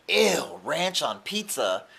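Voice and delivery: slow, grossed-out "ranch on pizza?"; disgusted coworker. Retold or imitated. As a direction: recoil at the very idea. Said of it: "That is so ghetto".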